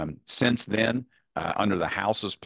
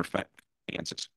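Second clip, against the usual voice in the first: corrupted glitchy audio; 10 dB quieter than usual. Real, not acted. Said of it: "your audio is cutting out again".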